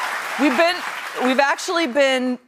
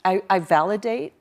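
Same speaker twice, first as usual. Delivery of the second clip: stiff, softer mock therapy-speak; dumb class exercise; 2 semitones lower, 4 dB quieter than usual. Wife imitating class conversation before a proctor, mock earnest. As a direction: recite it deliberately, like a communications exercise. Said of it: "have dumb conversations like".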